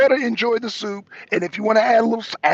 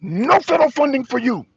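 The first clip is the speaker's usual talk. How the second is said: mock Bondi; 5 semitones higher than usual. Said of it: "Pam Bondi".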